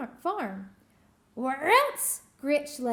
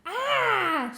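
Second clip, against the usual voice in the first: higher, louder ah; excited shout; 8 semitones higher, 6 dB louder than usual. Acted. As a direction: leap up with an idea. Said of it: "she shouted with a jump".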